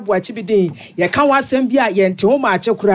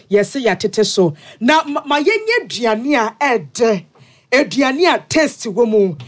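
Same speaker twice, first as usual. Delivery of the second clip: ad read. Acted. Sponsor ads read in bulletin.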